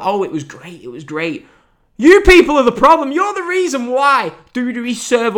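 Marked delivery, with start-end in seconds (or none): 0.0-1.5 mocking fans.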